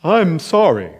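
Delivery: hammed-up heartfelt "I'm sorry"; fake sincere apology. Boy putting on an act for his mom, mock-sincere. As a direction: overact the sorry to sound sincere. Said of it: "I'd put on my best acting gig".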